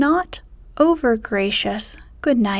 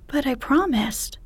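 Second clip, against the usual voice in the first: insistent princess; 4 semitones higher than usual. Acted.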